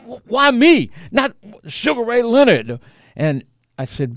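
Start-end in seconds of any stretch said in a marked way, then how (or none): 0.0-2.8 imitating near tears. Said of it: "He basically starts to cry".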